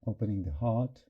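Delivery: calm meditation guide with long pauses; guided meditation. Real, not acted. Teacher opening the group's hearts, in calm guided meditation. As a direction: lead them gently into presence, pausing between phrases.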